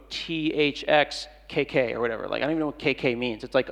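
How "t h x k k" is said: put-on slow spelled-out letters like a bored kid; slowly spelled-out lazy teen text; mock texting youngster. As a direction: drag out each letter, unimpressed. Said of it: "you're young and you go".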